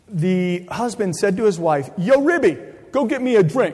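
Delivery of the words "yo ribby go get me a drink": put-on New York accent, pitched up. Retelling what a husband said to his wife: new york accent. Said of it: "it was in that New York accent".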